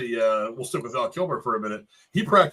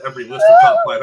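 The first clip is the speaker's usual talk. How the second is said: excited outburst; 12 dB louder, faster than usual. Real, not acted. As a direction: pitch shoots way up, louder. Gushing about a favourite movie.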